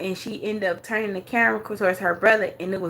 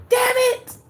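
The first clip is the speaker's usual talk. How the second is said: whispered damn it; a hushed imitation of her cursing; unvoiced mock mutter; mock whispered curse; 12 semitones higher than usual. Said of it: "She's like".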